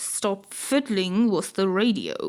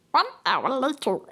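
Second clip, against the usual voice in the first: dramatic narrator; 3 semitones higher than usual. Shown as a demonstration. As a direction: announce it like a documentary card. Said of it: "making something serious".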